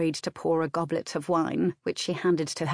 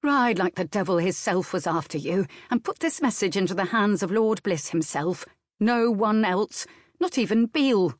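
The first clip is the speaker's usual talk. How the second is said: sharp orders; 3 semitones higher than usual. Acted. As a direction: drive the message home, sharp and firm. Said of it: "saying sharply".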